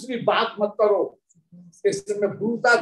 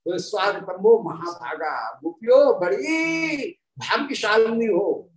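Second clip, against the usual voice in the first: sweet welcoming Krishna; 3 semitones lower than usual. Retold or imitated. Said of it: "निषेध में क्या कह रहे हैं?".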